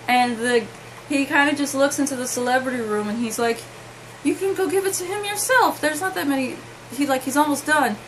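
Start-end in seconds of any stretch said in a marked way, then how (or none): 4.2-6.6 security guard. Retold or imitated. Security guard answering her.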